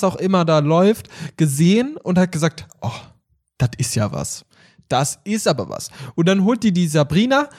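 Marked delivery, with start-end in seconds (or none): 2.8-5.9 low impressed mum voice. Retold or imitated. Mum quoted watching TV.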